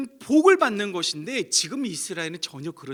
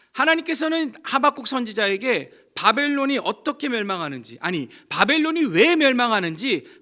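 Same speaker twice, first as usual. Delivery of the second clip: rising, louder sermon climax; fervent preaching; 4 semitones higher, 6 dB louder than usual. Real, not acted. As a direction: build the point with urgency. Preaching at full force.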